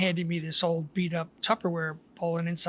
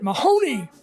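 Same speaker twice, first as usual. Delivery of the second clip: name called out loudly, pitched up; retold yell; 5 semitones higher, 7 dB louder than usual. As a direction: holler out to a neighbor. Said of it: "and I yelled out".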